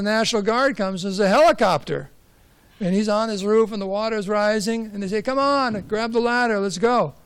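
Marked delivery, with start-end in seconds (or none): 5.2-7.1 mock rescuer call. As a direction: call him up the ladder, half-acted.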